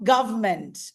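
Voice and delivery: "government" shortened to "guv-ment"; silent middle syllable. Shown as a demonstration. Teacher showing the English pronunciation, syncopated. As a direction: drop the "ern" in "government". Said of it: "the pronunciation is government".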